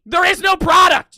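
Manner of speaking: high scream punching the word no; furious shout. Real, not acted. Screaming at a chargeback viewer, stress on no. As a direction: hammer the word no in There is no product. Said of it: "Yeah, I'm screaming".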